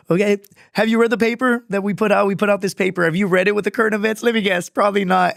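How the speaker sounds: high, strained retelling of questioners cracking up; imitating amused examiners. Board quizzing the clueless Marine, imitated barely holding back laughter. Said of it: "they're literally all laughing".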